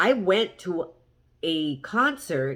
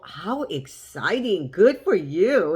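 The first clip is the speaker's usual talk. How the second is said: slow, swooping retold delight, louder at the end; gushing praise, re-enacted; excited congratulations; 3 dB louder, slower than usual. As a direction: cheer them on, stretching the words. Retelling congratulating him.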